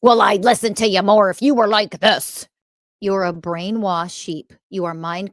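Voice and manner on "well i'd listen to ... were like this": mock commenter. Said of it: "people tell on themselves in the fucking comments".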